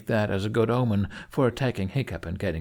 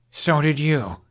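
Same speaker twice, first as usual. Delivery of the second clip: raised, slow, pointed jab; sharp accusation; 6 semitones higher, 5 dB louder, slower than usual. A narrator's reading. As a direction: lean on each word like an accusation. Tense standoff, she hits back.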